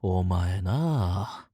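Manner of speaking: long drawn-out, exasperated grumble; exasperated reproach. Acted. Reproaching a colleague for the excuse, exasperated. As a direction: drag it out, fed up with them.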